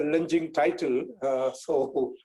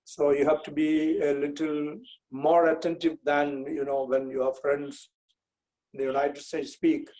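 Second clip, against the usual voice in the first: Indian English with a Kerala accent. Real, not acted. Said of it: "I'll be speaking with an accent".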